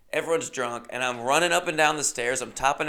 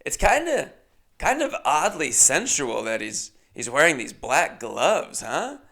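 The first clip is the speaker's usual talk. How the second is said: flirty host. Retold or imitated. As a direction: lay the innuendo on. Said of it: "Then she goes".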